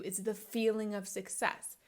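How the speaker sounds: ordinary delivery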